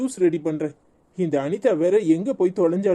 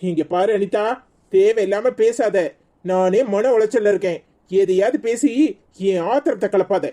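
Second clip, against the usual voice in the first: angry rebuke; 3 dB louder than usual. Acted. Scolds Anitha, says he's enraged.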